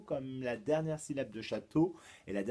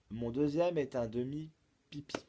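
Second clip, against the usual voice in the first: "Mon deuxième est un demi-pipi" as a presented clue; riddle recital; 2 semitones higher than usual. Shown as a demonstration. Teacher poses the second clue, projected riddle recital. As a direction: announce the clue clearly and brightly projected.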